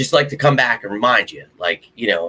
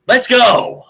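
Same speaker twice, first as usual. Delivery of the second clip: loud, high fired-up yell; rallying shout; 13 semitones higher, 7 dB louder than usual. Real, not acted. Host cheering on the Eagles' run, a high rallying shout. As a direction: shout it like a fan rallying the team.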